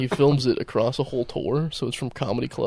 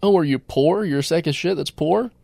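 high, louder mock crowd-work heckling; Stavros; 6 semitones higher, 5 dB louder than usual. Co-host quoting Stavros roasting someone in the crowd, raised mocking voice. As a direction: fire off incredulous questions at an audience member, imitating. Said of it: "When he says".

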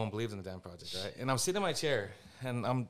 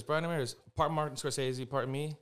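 Michael Bay introducing him; 5 semitones higher, 4 dB louder than usual. Retold or imitated. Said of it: "He goes".

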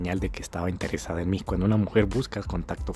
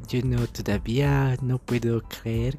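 put-on French-accented girl; slower than usual.

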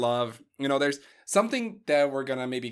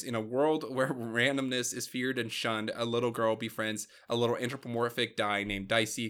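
movie trailer voice. Shown as a demonstration. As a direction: announce it like an epic trailer. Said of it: "movie trailer voice".

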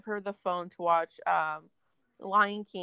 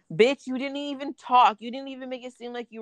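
indignant retort; 5 semitones higher, 5 dB louder than usual. Retold or imitated. Angry reply to his text.

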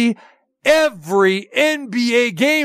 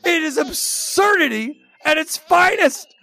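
laughing; 6 semitones higher than usual. Real, not acted. Laughing after the bit.

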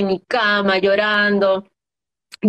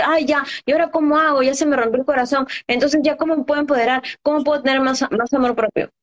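voicing a heartbroken woman; 4 semitones higher, faster than usual.

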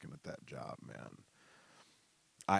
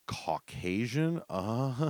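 baffled repeat; 5 semitones higher, 4 dB louder, much slower than usual. Retold or imitated. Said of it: "I was like".

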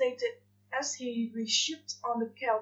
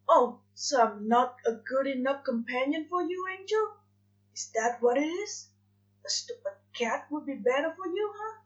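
growing anger; 2 semitones higher than usual. Acted. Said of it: "His anger seemed to grow with each word".

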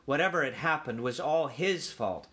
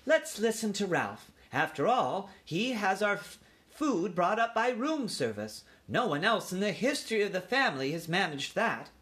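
raised-pitch aunt pleading a case; reasoning aunt, pitched up; persuasive aunt mouse; 8 semitones higher than usual. A narrator's reading. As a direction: speak up for the youngster in a high voice. Aunt argues for her nephew.

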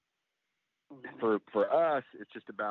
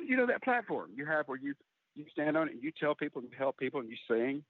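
a mother's voice pitched higher, lightly teasing; 4 semitones higher than usual. Retold or imitated. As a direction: voice Mom poking at her son, voiced a little higher. Mother explaining, retold.

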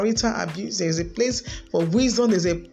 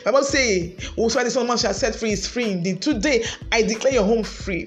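rising, intense praying at full force; fervent prayer. Acted. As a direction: pray it out over the congregation, building. Leads a prayer for marriages.

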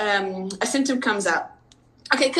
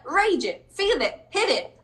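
higher, punchy commands; energetic rallying cry; fierce urging; 6 semitones higher, slower than usual. Real, not acted. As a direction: pump them up to let the rage out. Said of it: "first it's like".

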